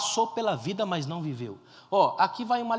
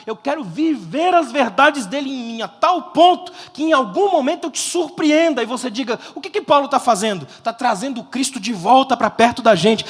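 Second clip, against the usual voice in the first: loud, raised, driving sermon climax; full-force preaching; 3 semitones higher, 11 dB louder than usual. Real, not acted. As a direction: proclaim it, stretching out the last phrase. (pregação inflamada, em voz alta e forte)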